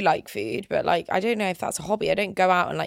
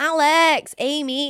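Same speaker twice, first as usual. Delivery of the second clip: put-on Mancunian accent with one name drawn out; 7 semitones higher, 4 dB louder than usual. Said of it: "they would always be like".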